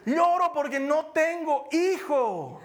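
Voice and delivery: high, slow, broken pleading; a mock-tearful woman begging for a child; imitating Ana. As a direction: play the weeping wife in halting words. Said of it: "yo me imagino que le ha dicho".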